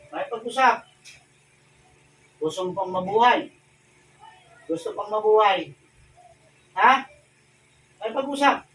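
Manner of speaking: forceful questioning. Real, not acted. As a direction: demand it of the spirit. Exorcist interrogating a spirit.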